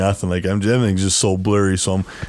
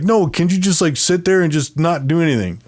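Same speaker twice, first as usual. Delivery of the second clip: higher-pitched imitated scolding; retold exasperation; 6 semitones higher than usual. Woman tells restless patient to sit, imitated exasperation. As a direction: mimic her fed-up plea, pitched up.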